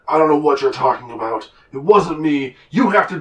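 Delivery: loud, indignant denial, acted out; overheard arguing. Game master plays snippets of an argument at the docks, loud and indignant. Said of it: "you hear just snippets of".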